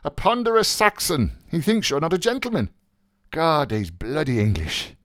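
high, animated scornful gossip; theatrical Buck Mulligan. Acted. Plays Buck Mulligan's dialogue.

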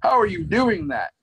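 mock astonishment; baffled Strange. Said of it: "He goes".

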